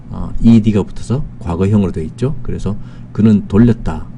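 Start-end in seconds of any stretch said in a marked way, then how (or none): none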